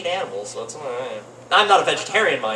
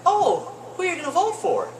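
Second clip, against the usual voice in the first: put-on sweet old lady voice; 12 semitones higher than usual. Comic voicing old lady at polling line, sweet. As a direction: chirp it like a sweet grandma. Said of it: "if I make this voice".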